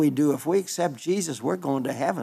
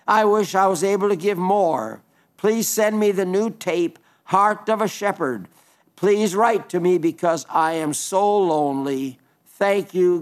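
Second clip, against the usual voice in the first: reading a letter aloud; 3 semitones higher than usual. Acted. Reads an elderly widow's letter.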